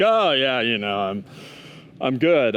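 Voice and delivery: low, hesitant brush-off, imitated; mock reluctant reassurance, dropping low; downplaying pain. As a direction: play it down to the coach, haltingly. Limping player brushes off coach's concern.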